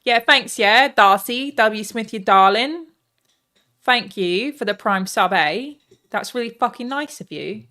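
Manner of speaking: put-on loud, slow British chav accent; hammed-up chav accent, loud and drawn out. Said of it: "thank every sub in, in the chat accent".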